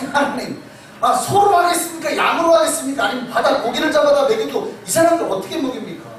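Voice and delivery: mock-astonished, chuckling objection; incredulous protest. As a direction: Moses can't believe the promise. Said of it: "모세가 뭐라고 반응해요".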